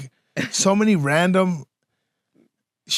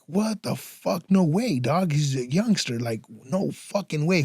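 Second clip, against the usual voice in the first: shocked disbelief; 6 dB quieter than usual. Retold or imitated. Retelling to a friend hearing of a cousin's death, stunned. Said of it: "I'm like".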